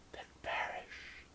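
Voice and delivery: soft unvoiced whisper, right at the ear; cold whisper. You whispering a threat into the lover's ear. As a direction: breathe it like a death sentence. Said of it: "and whisper".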